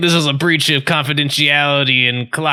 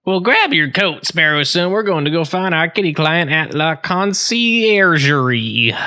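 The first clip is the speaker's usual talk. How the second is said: falcon detective; 3 semitones higher, slower than usual. Acted. Plays Falcon announcing the plan.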